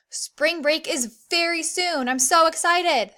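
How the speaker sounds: teacher modelling a gleeful exclamation; excited. Shown as a demonstration. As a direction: say it like spring break is tomorrow. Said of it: "An exclamation mark at the end of an exclamatory sentence".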